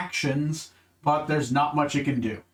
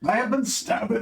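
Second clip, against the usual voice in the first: prissy ogre voice; 7 semitones higher than usual. Acted. Ogre voice continues.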